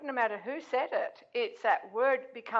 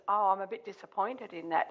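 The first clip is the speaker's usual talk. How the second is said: calm; 3 semitones lower than usual. Retold or imitated. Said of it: "And I said it like that".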